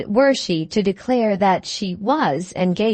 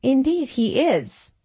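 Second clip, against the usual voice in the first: higher voice with firm stress on "Indeed"; emphatic; 6 semitones higher than usual. A narrator's reading. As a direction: insist on it, "Indeed" pitched up. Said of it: "with all the emphasis in her power".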